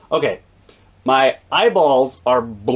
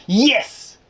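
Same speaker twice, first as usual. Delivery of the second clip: insistent nurse; 10 semitones higher than usual. Retold or imitated. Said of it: "she's like".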